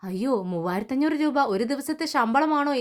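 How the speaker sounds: lightly voiced amazement at the pay; a hint of disbelief, mildly acted; amazed question. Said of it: "അത്ഭുതത്തോടു കൂടി ചോദിക്കുക".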